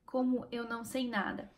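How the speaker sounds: soft, spaced-out words; understated sinking realization. Acted. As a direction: repeat it quietly, word by word. Repeats the thought slowly, word by word.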